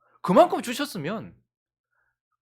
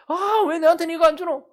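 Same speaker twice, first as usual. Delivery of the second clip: high, whining protest to God; hammed-up grumbling, pitched up; mock complaining; 9 semitones higher, 4 dB louder than usual. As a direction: act out an aggrieved whine. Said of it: "하나님 막 원망하는 거예요".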